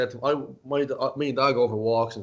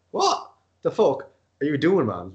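slow, incredulous outburst; mock disbelief; 4 dB louder, slower than usual. Reacting to a CrossFit workout, acted incredulous outburst. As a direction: draw it out as if appalled.

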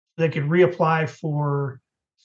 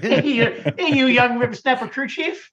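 put-on higher, laughing cranky old-timer; old prospector; 5 semitones higher than usual. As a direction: scold like a grumpy old coot. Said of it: "Mayor, can you say it for us one time?".

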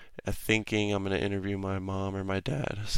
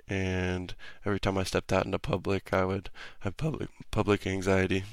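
real voice cracks from a sore throat; voice cracking. Real, not acted. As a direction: voice breaking on words. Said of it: "Sorry for the voice cracks".

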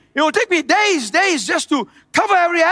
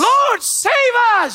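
higher, drawn-out preacher's cry; retold crowd shout; 5 semitones higher, much slower than usual. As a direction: imitate the crowd's plea, slowly. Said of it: "they were shouting".

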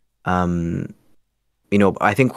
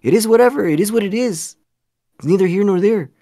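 put-on much higher, louder Latino accent; 4 dB louder than usual. Answering a Mexican who objects, in a high, loud Latino accent. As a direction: lay on a thick easygoing Latino accent. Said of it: "if I use a Latino accent".

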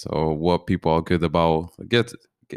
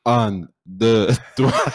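halting French count; 3 semitones higher, 3 dB louder, much slower than usual. Retold or imitated. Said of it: "And this is how it sounded".

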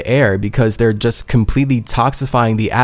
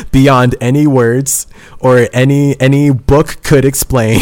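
emotional gushing with laughter; 3 semitones higher, 4 dB louder than usual. Real, not acted. Child gushing over a trusting mom, laughing with emotion. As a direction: gush about her, laughing between phrases.

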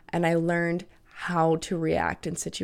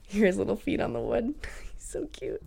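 cooing whisper to dog; 3 semitones higher, 6 dB quieter than usual. Real, not acted. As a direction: whisper fondly to the puppy. Cooing over the dog Benny.

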